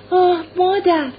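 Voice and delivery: put-on high, loud child voice; child's emotional cry. A narrator's reading. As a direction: exclaim as a child finding mother. Child recognises mother and embraces her.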